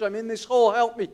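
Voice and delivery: high, loud repeated plea; shouting for help. Retold or imitated. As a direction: holler up from the pit for help. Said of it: "he shouts up to the psychologist".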